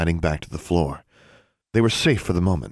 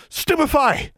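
high, desperate spell shout; 3 dB louder, slower than usual. A narrator's reading. Girl firing a stunning spell in desperation, shouted. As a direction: cry out the spell forcefully. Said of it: "pointed her wand and shouted".

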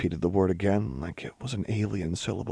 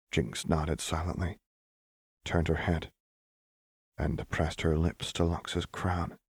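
measured, hushed storytelling; story narration; 4 dB quieter than usual. A narrator's reading. Narrator telling of Lux's heartbreak, story narration. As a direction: narrate a tender, sad scene. Reads fiction aloud.

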